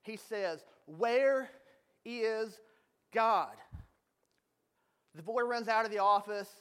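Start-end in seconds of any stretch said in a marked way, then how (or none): 0.8-3.5 louder, stern preacher voice with slow pauses; a hammed-up stern pastor demanding an answer; sternest preachery voice. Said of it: "in his sternest preachery voice".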